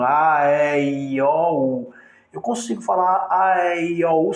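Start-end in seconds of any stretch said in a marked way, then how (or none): 0.0-1.9 A, E, I, O, U drawn out as open, unobstructed sounds; open vowels. Shown as a demonstration. Teacher showing unobstructed vowels to students, open vowel sounds. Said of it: "passa pela boca sem obstáculo nenhum". 3.3-4.3 A, E, I, O, U run together without closing the mouth; mouth kept open. Shown as a demonstration. Teacher proving vowels meet no obstacle, mouth kept open. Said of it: "sem fechar a boca".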